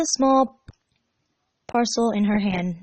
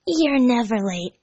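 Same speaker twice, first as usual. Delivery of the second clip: Tails remark; 4 semitones higher, slower than usual. Acted. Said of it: "Tails remarked".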